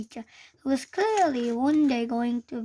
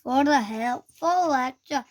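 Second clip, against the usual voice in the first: heavy sarcasm; 3 dB louder than usual. Acted. Teacher sarcastically scolding Hiccup in front of the class. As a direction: put the know-it-all pupil in his place. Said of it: "with a heavy sarcasm".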